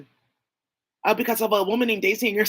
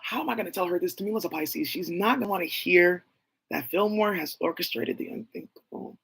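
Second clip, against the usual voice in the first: near tears; 4 semitones lower, 4 dB quieter than usual. Retold or imitated. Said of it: "I started crying. I couldn't even talk".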